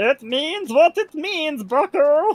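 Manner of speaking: gremlin character voice, high and slow. Voicing what the craft gremlin says, craft gremlin voice. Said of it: "my favorite voice to do".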